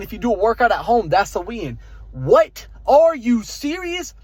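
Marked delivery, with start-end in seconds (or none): 2.1-4.1 mock surprise. Mock amazement at stacked wins.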